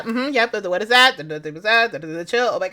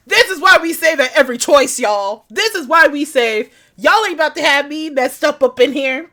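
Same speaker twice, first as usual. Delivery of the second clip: gloating; 3 semitones higher, 5 dB louder than usual. Real, not acted.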